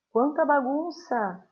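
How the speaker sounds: drawn-out mock dismay; exclamation. Shown as a demonstration. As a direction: exclaim slowly at the mess. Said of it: "alguns exemplos de frases".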